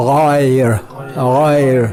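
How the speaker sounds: غائر with a throaty غ and a short ی; Arabic ghair. Shown as a demonstration. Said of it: "اور دوسرا لفظ".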